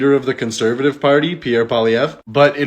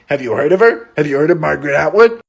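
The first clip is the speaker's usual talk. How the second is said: mock condescending question; 2 semitones higher, 4 dB louder, faster than usual. Mock quizzing the reporter.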